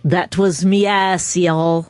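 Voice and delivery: slow Irish try, still Southern; Irish accent. Shown as a demonstration. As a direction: attempt an Irish lilt, fail. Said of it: "How about Irish".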